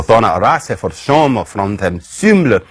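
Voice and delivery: put-on reconstructed Old English accent with a Germanic lilt; half-invented Old English accent. Shown as a demonstration. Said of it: "the cute loon sound in French".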